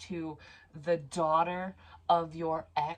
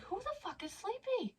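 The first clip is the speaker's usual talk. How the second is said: high, soft mock whine; mock sleepy whine; 5 dB quieter than usual. Mocking her own sleepiness in a high whine. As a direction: squeak it out like a groggy brat.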